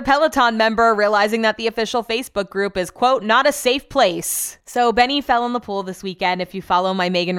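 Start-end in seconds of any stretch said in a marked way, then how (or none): 2.9-4.6 sarcastic air quotes. Retold or imitated. Quoting the group's complaint.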